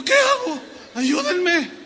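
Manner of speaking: mock panicked plea. Preacher stuck, pleads for help.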